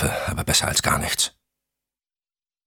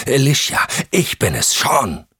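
raised, higher-pitched urgent call; 9 semitones higher, 4 dB louder than usual. Acted. Sean identifies himself to Alicia as she strikes, calling urgently. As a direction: call out to make her stop hitting.

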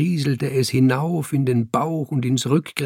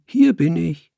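high, raised call; 6 semitones higher, 5 dB louder than usual. A narrator's reading. Cat calling behind the man's back, calling out. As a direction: call it out to tease. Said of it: "ich rief in seinem Rücken".

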